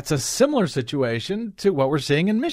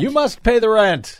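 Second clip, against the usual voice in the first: sneering panto villain; 7 semitones higher, 3 dB louder than usual. Pretend. Villain repeats, higher, louder.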